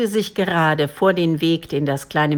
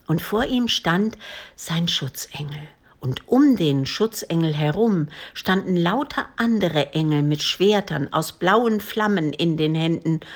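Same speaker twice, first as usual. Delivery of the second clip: plain reading voice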